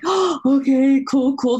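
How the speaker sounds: slow, drawn-out pleased surprise; pleasantly surprised. Retold or imitated. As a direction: react like a happy surprise. Retold delighted reaction.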